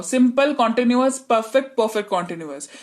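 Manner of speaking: quick rote list, last item rushed and dropped; rattling off list. Shown as a demonstration. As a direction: rattle the names off like a memorised chant. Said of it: "ये चार नाम को तो रट जाओ". (रटी हुई सूची की तरह जल्दी-जल्दी बोलना)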